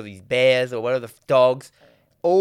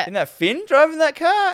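grizz mate voice; 14 semitones higher than usual. Retold or imitated. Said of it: "his big grizz mate is like".

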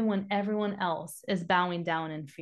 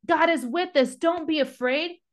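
raised-pitch pep talk; hopeful rallying of a crowd; encouraging; 6 semitones higher than usual. Acted. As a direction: urge the masses on with lifted voice. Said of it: "They're giving an encouraging message".

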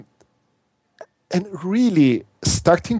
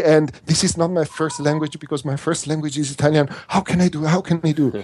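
higher-pitched, rushed fretting like a nervous past self; imitating panicky anxious self; 4 semitones higher than usual. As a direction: replay your old panic before an interview, pitched up. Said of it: "this is fear, this is social anxiety".

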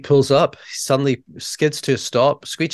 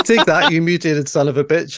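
higher, louder put-on farmer bellow; 5 semitones higher, 3 dB louder than usual. Farmer shooting at the stranger, hammed-up yell. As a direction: play the trigger-happy farmer. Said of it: "He says".

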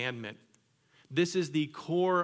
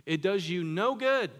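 emphatic preaching; 6 semitones higher, 5 dB louder than usual. Real, not acted. Preacher punching the point.

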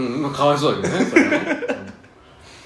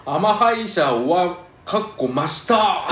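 mock typo reading; 3 semitones higher, slower than usual. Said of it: "今歯医者終わりました っていう文を".

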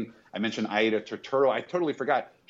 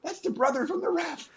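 surprised realization. Retold or imitated. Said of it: "And I was like".

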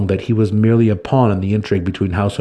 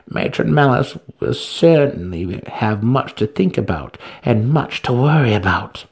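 scheming matron; 3 semitones higher than usual. Acted. Santa Fe enjoys the intrigue.

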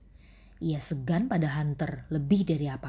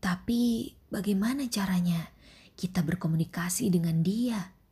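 timid whispering cockroach; 2 semitones higher than usual. Acted.

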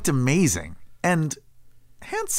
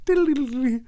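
flashback sound effect; 7 semitones higher, faster than usual. Acted. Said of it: "cut to a flashback".

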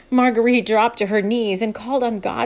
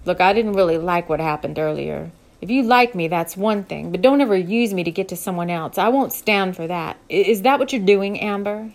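cowboy voice; 2 semitones lower, 4 dB louder than usual. Acted. Luke confronts Amber, low voice.

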